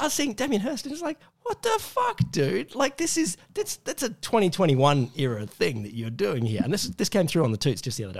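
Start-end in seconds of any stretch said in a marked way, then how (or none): 1.4-6.6 high incredulous what the fuck; exaggerated outrage, pitched up; mock disbelief. Mocking Damien Hirst.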